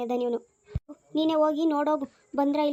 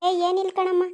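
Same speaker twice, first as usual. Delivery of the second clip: raised voice, higher and louder; louder on request; 5 semitones higher, 5 dB louder than usual. Acted. Guest asked to speak up, replies in a raised voice. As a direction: answer up loud so she can hear. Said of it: "ಏನು ಜೋರಾಗಿ ಮಾತಾಡ್ರಿ".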